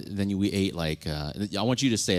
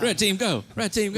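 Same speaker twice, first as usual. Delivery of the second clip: mock war cry; 11 semitones higher than usual. Joking about tunnel fighters, high mock soldier yell. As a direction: shout it like a soldier charging.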